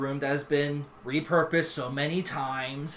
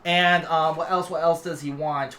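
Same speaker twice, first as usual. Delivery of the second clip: excitable dragon king; 7 semitones higher, 10 dB louder than usual. Acted. Dragon king suddenly remembers the letter, loud excitable babble. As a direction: burst in and stutter through repeats.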